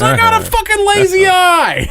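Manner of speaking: high, loud, slow put-on cousin voice; imitating the cousin. Imitating the cousin explaining his lazy eye, mock voice. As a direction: drag it out like it's obvious. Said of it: "And he goes".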